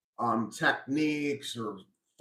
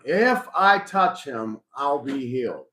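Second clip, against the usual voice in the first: voiced resolve; 4 dB louder than usual. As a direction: voice her private rule deliberately. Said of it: "She came up with that thought".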